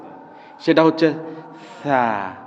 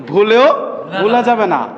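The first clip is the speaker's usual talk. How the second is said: ভুলেও stressed, slower than before; emphatic repeat of the rule; 4 semitones higher than usual. Shown as a demonstration. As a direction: spell it out firmly. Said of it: "কি বলছি?".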